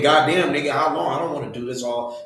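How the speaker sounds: grumbling complaint, fading away; a quiet, grumbling put-on gripe; mock complaining. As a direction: whine it as a fed-up complaint. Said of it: "He ain't saying".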